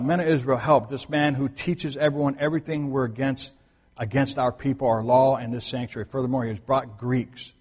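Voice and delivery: loudly rally others as an accuser; shouted accusation. Retold or imitated. Crowd shouting to the men of Israel against Paul, mild shout. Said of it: "They shout out".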